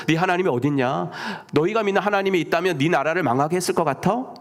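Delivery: mildly acted jeer; mocking taunt. Enemies jeering at a defeated exile's faith, mocking. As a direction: taunt with a scornful challenge. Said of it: "이렇게 조롱하고 모욕하는".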